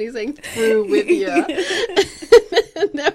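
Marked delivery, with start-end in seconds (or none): 0.3-1.4 slow, drawn-out Irish "Through with ya"; Irish accent. Retold or imitated. Security guard at Dublin Airport waving people through, Irish accent. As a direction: give it the Irish guard's lilt, slowly. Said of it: "because in an Irish accent".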